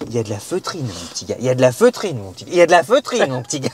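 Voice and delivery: répété comme un disque rayé, de plus en plus fort. Pretend. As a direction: comme un disque qui saute. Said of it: "C'est comme un disque rayé". (disque rayé qui se répète en boucle)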